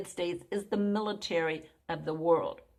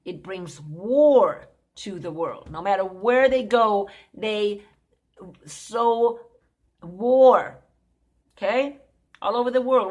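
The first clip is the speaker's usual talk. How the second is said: loud preaching; 7 dB louder than usual. Real, not acted. Preacher rising to loud denunciation.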